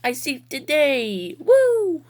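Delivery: slow, proud hero cry; triumphant hero. Pretend. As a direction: announce the victory grandly.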